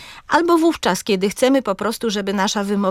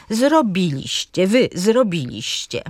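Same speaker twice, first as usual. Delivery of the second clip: zrobiliście slowly as zro-BI-liś-cie; antepenultimate stress. Shown as a demonstration. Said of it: "Na trzecią sylabę od końca akcent pada".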